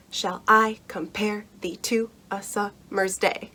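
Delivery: "Shall I compare thee to a summer's day?" with every second syllable stressed, da-DUM; iambic heartbeat rhythm. Shown as a demonstration. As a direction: read it like a steady heartbeat, weak-strong. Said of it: "it sounds like a heartbeat".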